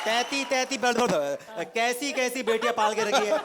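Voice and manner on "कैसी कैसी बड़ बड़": "तैती" with t in place of k; mock lisp. Suitor mocking lisping daughter, "तैती" with t for k. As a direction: mimic baby-talk, saying "तैती" for कैसी. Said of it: "एक तोतली है".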